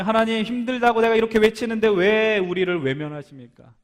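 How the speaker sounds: loud, high, insistent protest to God; confrontational outcry. Acted. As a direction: cry out and demand an answer. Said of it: "하나님께 따지는 거 아니에요".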